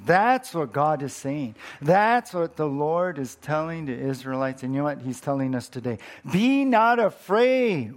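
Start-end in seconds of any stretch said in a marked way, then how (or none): 6.3-8.0 preached promise. Acted. God's words preached.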